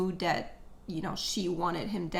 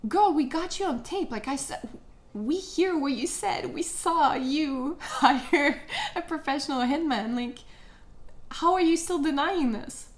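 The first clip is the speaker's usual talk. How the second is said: higher, louder, exasperated disbelief with a laugh; exasperated mock chorus; 5 semitones higher, 4 dB louder than usual. Everyone tells the lying wife she is caught, exasperated. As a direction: scold her like a caught liar. Mocking everyone calling her out.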